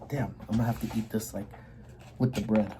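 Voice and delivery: talking while chewing; words round a bite of food; mouth full. Real, not acted. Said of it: "my mouth full".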